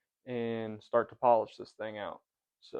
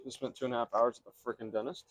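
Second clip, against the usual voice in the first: numb mouth after dental work; 6 dB quieter, faster than usual. Real, not acted. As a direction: talk through a numb mouth. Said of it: "If he looks a little funny talking".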